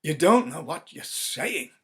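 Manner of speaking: loud, urgent protest; pleading. Acted. Husband pleads with his wife, loud and urgent. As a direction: reason with her in fear.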